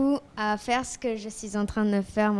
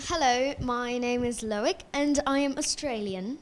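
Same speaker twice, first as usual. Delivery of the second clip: putting on an Australian accent; 3 dB quieter than usual. Shown as a demonstration. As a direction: try a polite Australian accent. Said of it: "put on an Australian accent".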